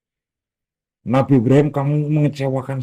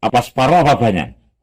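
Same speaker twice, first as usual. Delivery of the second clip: louder, coaxing questions; teasing offer; 3 dB louder than usual. Acted. Abah offers his children a story, playfully louder. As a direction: tempt the listener with a story. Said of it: "Ngomongnya kayak gitu".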